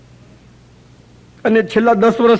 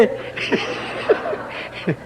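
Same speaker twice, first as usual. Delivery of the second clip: હળવું, હવાવાળું ખુલ્લું હાસ્ય; રમૂજ પછી ધીમેથી હસો; ધીમું હાસ્ય; 9 dB quieter than usual. Real, not acted. શ્રોતાઓ સાથે હાસ્ય. (ધીમું હાસ્ય)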